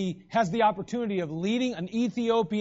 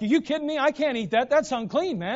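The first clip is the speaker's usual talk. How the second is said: higher, pitched-up mock panic; freaking out; 6 semitones higher than usual. Peter protesting to the Lord, higher in mock panic. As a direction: Peter flipping out, acted with a grin in the voice. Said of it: "he's freaking out".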